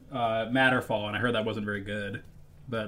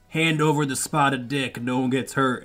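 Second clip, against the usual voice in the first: mock cowboy demand; 3 semitones higher, 4 dB louder than usual. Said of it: "or he's like".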